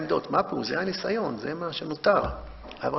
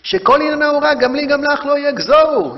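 louder, higher cry full of pain; 9 semitones higher, 10 dB louder than usual. Retold or imitated. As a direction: cry it out in anguish. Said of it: "והיא צועקת ב-, במין כאב כזה". (צעקה כואבת)

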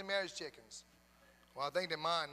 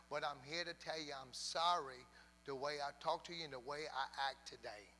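lower-pitched, contrite explanation; retold apology; 3 semitones lower, 4 dB quieter than usual. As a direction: own up humbly, keeping the voice down. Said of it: "I gotta apologize to you".

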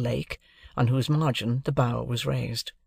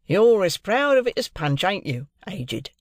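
softened Wemmick; 7 semitones higher, 4 dB louder than usual. A narrator's reading. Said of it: "his hard face really softened".

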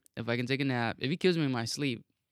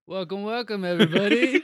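excited greeting; 8 semitones higher, 7 dB louder than usual. Acted. Show intro call.

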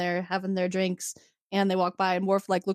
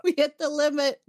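high, slow, drawn-out sorry; hammed-up apology to the listeners; mock apology; 8 semitones higher, slower than usual. Host apologizing to listeners, hammed-up and slow.

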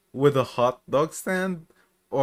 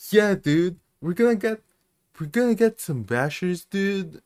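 PewDiePie; 6 semitones higher than usual. Retold or imitated. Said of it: "that video that PewDiePie did".

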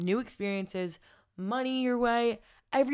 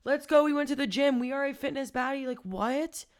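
high, loud, hyped-up cheer for yourself; shouting her own praises, high and loud; hype-girl cheer; 6 semitones higher, 5 dB louder than usual. Pretend. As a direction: cheer like your own biggest fan after the gym. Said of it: "Be like".

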